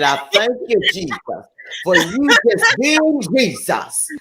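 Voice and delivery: prayerful voice. Retold or imitated. S1 voicing her own prayer.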